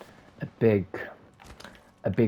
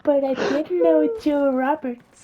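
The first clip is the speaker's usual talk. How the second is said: witch voice; 7 dB louder than usual. Acted. Witch tells Cinderella the price in a high loud screech. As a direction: play the wicked witch bargaining. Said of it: "you sound like a whole different person".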